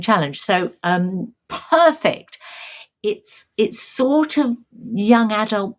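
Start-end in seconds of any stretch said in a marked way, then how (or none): 1.5-5.8 a bright, much higher burst of delight. Real, not acted. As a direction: pop up high, pleased as punch. Delighted book fits challenge.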